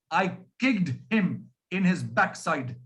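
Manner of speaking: "kicked" with the k sounds and the ending hit hard, every consonant popped; exaggerated consonants. Shown as a demonstration. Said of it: "Now that's only an exaggeration".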